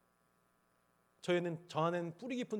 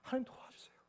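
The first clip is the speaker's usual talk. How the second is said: a breathy, unvoiced plea to God; whispered prayer; 7 semitones higher, 8 dB quieter than usual. Real, not acted. Pastor showing his fearful prayer, whispered.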